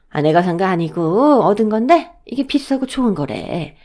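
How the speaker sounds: coaxing elder pressing a gift; affectionate, self-effacing older woman; kindly mother-in-law. Acted. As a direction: urge her gently to accept, easing down at the end. Mother-in-law offers gift, acted.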